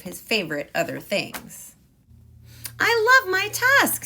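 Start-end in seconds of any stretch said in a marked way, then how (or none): 2.8-4.0 much higher, louder thrilled exclamation; delighted. Acted. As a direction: gush with joy over the tusk. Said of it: "said Ganesha".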